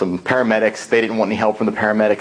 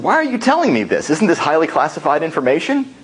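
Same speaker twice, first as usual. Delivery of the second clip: alarmed; 5 semitones higher than usual. Retold or imitated. Questioning secret military guide.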